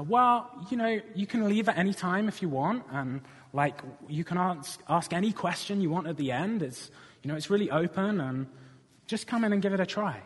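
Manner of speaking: retold easygoing invitation, lifted in pitch; reassuring invitation. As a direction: coax a hesitant newcomer, keep it casual. Teammate coaxing hesitant newcomer inside.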